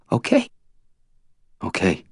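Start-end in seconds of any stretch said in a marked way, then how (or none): 0.1-0.5 very high, tearful rising question; pleading through tears. A narrator's reading. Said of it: "tries to sound normal".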